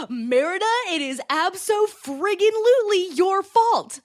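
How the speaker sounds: mock exasperated scolding. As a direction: scold her like she can't believe it.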